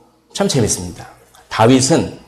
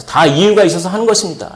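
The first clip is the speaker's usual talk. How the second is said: higher-pitched, lightly acted self-defence; undaunted retort; 5 semitones higher, faster than usual. Young David justifying himself to his brother, undaunted. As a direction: state it without shrinking. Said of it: "주눅들지 않고".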